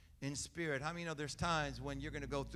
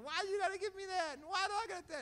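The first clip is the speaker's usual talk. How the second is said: put-on much higher, fast whiny kid voice; complaining kids; faster than usual. Preacher imitates kids complaining on a shopping trip, high whine. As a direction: whine like a spoiled child. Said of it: "and they were complaining".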